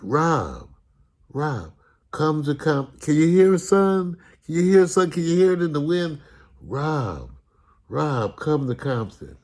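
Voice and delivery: hint of a haunting call; Compton calling in the wind.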